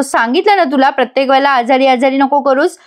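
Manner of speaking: a touch of mock annoyance; mildly irritated retelling. Husband tells fussing wife to stop, mildly irritated. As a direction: lightly act out being fed up. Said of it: "आता अद्वैत चिडतो आणि म्हणतो".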